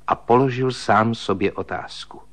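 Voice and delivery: ordinary delivery, nothing marked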